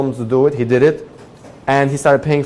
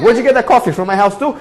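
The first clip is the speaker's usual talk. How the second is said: sarcastic accusation; 9 semitones higher, faster than usual. Retold or imitated. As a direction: accuse him of stealing coffee too. Confronting the neighbor.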